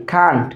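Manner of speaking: "can't" with a long a, "kaant"; pronunciation demo. Shown as a demonstration. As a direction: say "can't" as one open, falling syllable. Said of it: "can not-কে আমরা কি বলতে পারি".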